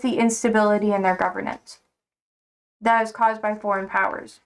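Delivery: talking while chewing gum; words round a wad of gum. Real, not acted. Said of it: "It's hard to talk when I have gum in my mouth".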